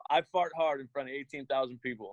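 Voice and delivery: laughing through "I fart hard". Real, not acted. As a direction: chuckle through the embarrassing line. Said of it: "laughing at himself".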